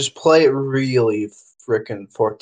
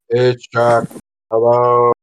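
deep voice impression; 3 semitones lower, much slower than usual. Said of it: "an even deeper voice version".

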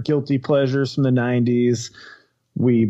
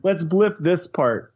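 sad and defeated; 3 semitones higher, slower than usual. Real, not acted. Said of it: "you just sound so sad and defeated".

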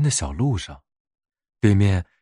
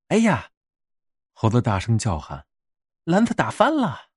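monkey shouting. Acted. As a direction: cry out in dismay.

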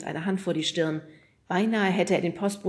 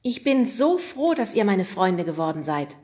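lightly voiced Oda; 3 semitones higher, 6 dB louder than usual. Oda's voice in story.

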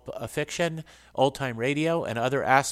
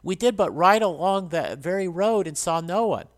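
raised, louder protest from the marshal; crying out; 6 semitones higher, 5 dB louder than usual. A narrator's reading. Marshal disputes the dying soldier's account, crying out. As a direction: protest it high and forceful. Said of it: "cried the marshal".

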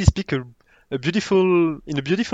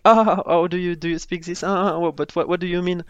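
mocking classmates; 4 semitones higher, 3 dB louder than usual. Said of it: "they can make fun of you, like".

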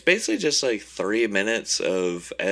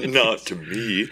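laughing through the line; 4 semitones higher, 4 dB louder, slower than usual. Acted. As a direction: crack up while saying it. Joking villain line while laughing.

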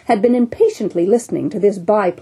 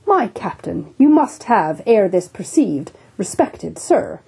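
imperturbable; slower than usual. Acted. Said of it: "said the imperturbable, godly-looking Bunger".

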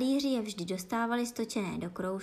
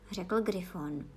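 ordinary delivery

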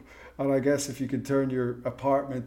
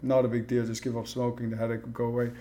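blasé; 2 semitones lower, 4 dB quieter, faster than usual. Retold or imitated. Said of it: "just so blasé about it".

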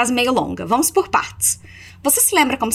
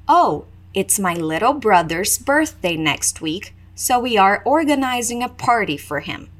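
slow, careful model sentence; slower. Shown as a demonstration. Teacher modelling for Brazilian students, slow and deliberate. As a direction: spell it out slowly so learners can follow. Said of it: "A primeira mais devagar".

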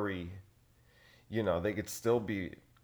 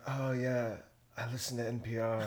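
mock NPR listener; 3 semitones higher, 5 dB quieter than usual. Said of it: "they're like".

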